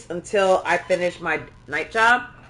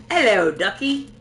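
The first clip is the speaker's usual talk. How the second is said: a light Cockney greeting, drawn out; a lightly put-on Cockney hello; Cockney accent; 5 semitones higher than usual. Streamer imagining the bot's voice, light Cockney hello. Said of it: "I'm just hearing a Cockney accent saying".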